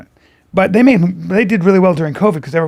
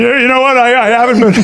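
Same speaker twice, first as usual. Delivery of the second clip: raised-voice mimicked answer; shouting; 4 semitones higher, 4 dB louder, faster than usual. Jimmy answering at the dinner table, mock shouting. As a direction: imitate someone talking far too loudly. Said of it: "fuck is he shouting for?".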